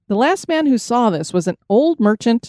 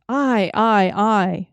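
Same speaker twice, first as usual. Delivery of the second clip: stammering in fright; much slower than usual. A narrator's reading. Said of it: "cried out".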